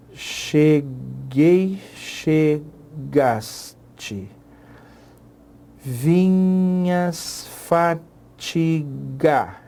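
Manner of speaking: very slow, stretched syllables; syllable counting. Shown as a demonstration. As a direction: drag out every syllable for counting. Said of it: "Eu vou tentar escrever aqui".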